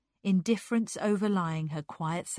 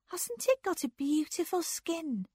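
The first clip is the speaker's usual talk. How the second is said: lightly voiced girl admiring the fur; dreamy murmur to herself; musing; 10 semitones higher than usual. A narrator's reading. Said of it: "she mused".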